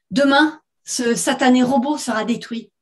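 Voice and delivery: firm, deliberate pronouncement; syllables detached. Acted. Woman to her ex-husband, detaching each syllable. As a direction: hammer it out syllable by syllable. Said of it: "en détachant chaque syllabe".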